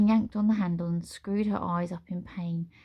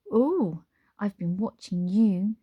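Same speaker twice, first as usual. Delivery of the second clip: witch voice; 5 dB louder, slower than usual. Acted. Witch speaking to Nine.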